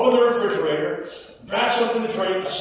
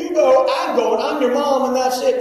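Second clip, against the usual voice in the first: insistent mother, retold; 4 semitones higher, 4 dB louder than usual. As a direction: lay down the law as a mother. Mother lays down the law.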